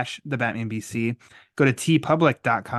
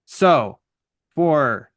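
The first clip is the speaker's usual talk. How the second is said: punchy catchphrase outro, key words pushed louder; podcast sign-off; 4 dB louder than usual. Acted. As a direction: sign off with deliberate pauses between phrases.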